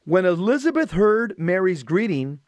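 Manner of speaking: measured, projected scripture reading; solemn read-aloud with pauses between phrases; gospel reading. Acted. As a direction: proclaim the reading to a congregation.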